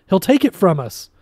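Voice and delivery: high, loud fearful warning; frightened scientist pleading; panicked cry. A narrator's reading. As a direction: cry out in fear. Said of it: "Quan screamed".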